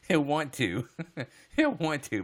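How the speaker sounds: loud, high words between laughs; laughing while talking. Real, not acted. Streamer cracking up about Bob believing them, laughing loudly. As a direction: force the words out through real laughter.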